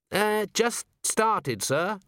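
put-on timid young dwarf. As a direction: answer shyly, unsure. Young dwarf answers the patrician.

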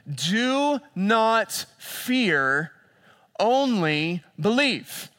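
very slow, weighty words; slow emphatic. Acted. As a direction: stretch every word to calm a fearful father. Jesus' words drawn out.

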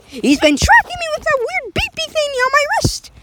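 cracks high mid-sentence; voice cracking. Real, not acted. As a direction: let the voice break upward. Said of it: "Sorry, I have weird cracks every time".

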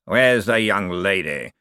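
slow, drawn-out call at ordinary volume; mild shout from a ghost; ghostly shout. A narrator's reading. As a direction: call out slowly as an eerie old necromancer. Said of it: "Fleed shouted".

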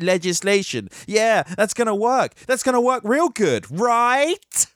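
high-pitched mock agreement; sarcastic. Real, not acted. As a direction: pretend to be convinced, dripping sarcasm. Mocking faith in regulation to work.

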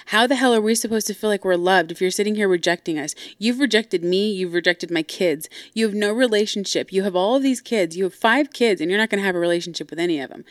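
mildly heated retold rant; pissed off. Sister accusing dad of rejecting her kids, mildly angry. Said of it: "And she's pissed".

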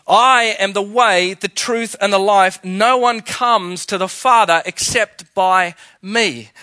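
loud, slow and weighty; solemn quote of Jesus. Retold or imitated. Preacher reading Jesus' words to the congregation, loud and slow. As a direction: proclaim each phrase as Jesus' claim. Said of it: "Jesus answered".

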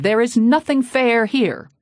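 slow, loud, high preacher's shout. A narrator's reading. Preacher shouting at the congregation, slow furious shout. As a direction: bellow it out in outrage. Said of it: "and shouted".

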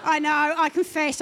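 sudden loud, high outcry; embarrassed outburst. Real, not acted. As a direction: blurt it out, caught out by her own words. Confessing her own prayer, laughing.

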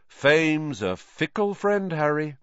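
high, slow, self-important maxim; grand pronouncement. A narrator's reading. Vain teacher lecturing pupil on fame, pompous. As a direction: intone it like precious wisdom.

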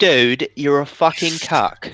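lightly put-on British commentator; a hint of British YouTuber; mock British. Riffing on Leafy but British, mock British. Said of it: "imagine Leafy but British".

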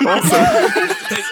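Awesome. drawn out slow and high in a teasing mock British accent. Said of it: "Are you making fun of my, my accent?".

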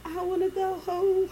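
high whiny meme voice; TikTok meme. Retold or imitated. Quoting a TikTok meme to her co-host, whiny. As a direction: do the TikTok sound whining. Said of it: "the TikTok".

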